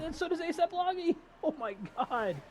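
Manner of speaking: high excited shout. Real, not acted. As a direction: shout it in disbelief. Crash reaction.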